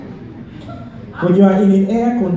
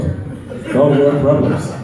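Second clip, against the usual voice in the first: slow drawn punchline; 2 semitones lower, much slower than usual. Acted.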